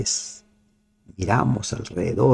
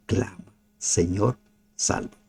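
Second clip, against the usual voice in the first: hushed plea; 3 semitones lower, 7 dB quieter than usual. Acted. Exhorta a clamar.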